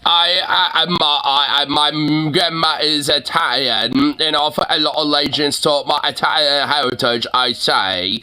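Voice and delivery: exaggerated mumbled British accent; mocking British accent. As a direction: parody a British speaker, slurring the words. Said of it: "me British voice".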